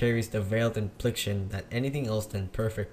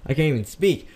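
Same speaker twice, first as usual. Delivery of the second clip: exasperated outburst; 3 semitones higher, 6 dB louder than usual. Real, not acted. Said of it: "I can't even say".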